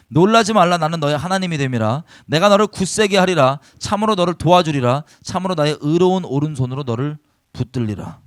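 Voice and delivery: solemn, ringing reading of scripture. Acted. Pastor reads God's words to the congregation, solemn and ringing. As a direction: proclaim the verses firmly to the hall.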